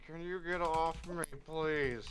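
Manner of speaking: muffled, as if under someone. Acted. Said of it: "a muffled voice just says".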